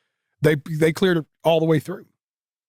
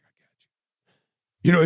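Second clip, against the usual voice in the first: Paul Heyman voice; 5 semitones higher, 5 dB louder, much slower than usual. Retold or imitated. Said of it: "He's like".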